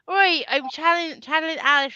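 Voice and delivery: high-pitched attempt at a sitcom character's accent; Alice from Vicar of Dibley. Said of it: "I can't do the accent now".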